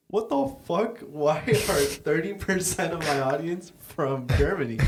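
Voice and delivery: high, incredulous what-the-fuck; shocked disbelief. Retold or imitated. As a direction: act out staring at the numbers in shock. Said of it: "and I'm like".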